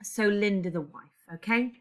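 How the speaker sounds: ordinary talk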